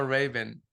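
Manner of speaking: Ray-Ban as "RAY-bun", second syllable swallowed; Middle Eastern pronunciation. Shown as a demonstration. Showing what we call it, Middle Eastern pronunciation. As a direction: punch RAY and weaken "ban" in Ray-Ban. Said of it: "We call it".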